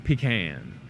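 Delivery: "pecan" said the southern way as PEE-can, stress on the first syllable. Shown as a demonstration. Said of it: "southern accent that would say pecan".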